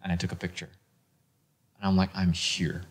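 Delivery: quietly taking in a dream come true; hushed awe. Real, not acted. Fan finally arriving at the convention, hushed. Awestruck before giant Star Wars posters.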